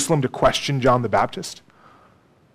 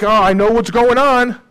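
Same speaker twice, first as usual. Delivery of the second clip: smug know-it-all; 7 semitones higher, 4 dB louder than usual. Retold or imitated. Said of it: "they're like".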